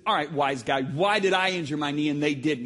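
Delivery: mock-mad challenge to a wise guy; retold anger. Injured patient challenging his therapist, retold anger. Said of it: "I got mad".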